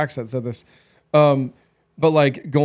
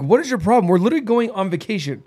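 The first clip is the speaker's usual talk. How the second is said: exasperated retort; 5 semitones higher than usual. Retold or imitated. Retold frustration at wife.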